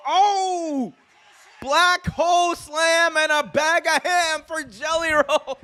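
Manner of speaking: mock-announcer call through laughter; high laughing shout. Real, not acted. Streamer mocking the commentary line while laughing. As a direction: shout the rhyme while cracking up.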